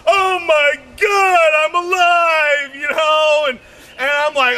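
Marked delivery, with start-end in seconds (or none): 0.1-2.7 mock relief. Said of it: "They're like".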